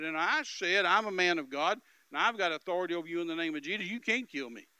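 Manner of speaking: loud, firm retold comeback; insistent declaration of authority; mad. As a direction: stand your ground with force. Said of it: "it just made me mad".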